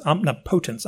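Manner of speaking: "omnipotence" said om-ni-POE-tence; stress on PO. Shown as a demonstration. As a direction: lean on the long PO in "omnipotence". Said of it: "where you put the emphasis".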